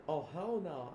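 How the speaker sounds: high, loud dismayed outburst; alarmed refusal. Acted. Zip being caught up in a chase, high loud alarm. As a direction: blurt it out in mock panic.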